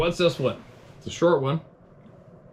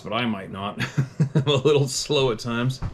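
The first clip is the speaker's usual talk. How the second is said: laughing; 3 semitones higher than usual. Real, not acted. Jokes about own slowness, laughing.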